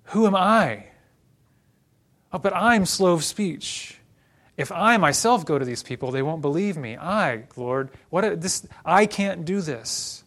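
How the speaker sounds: "I" punched high and loud each time; Moses, stressing I. Acted. Preacher as Moses protesting to the Lord, emphatic "I". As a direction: protest with all the weight on "I". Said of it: "got the emphasis on the wrong I".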